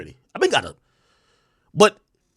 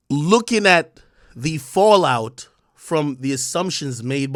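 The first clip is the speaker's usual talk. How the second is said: slowly. Real, not acted. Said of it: "I will say this very slowly".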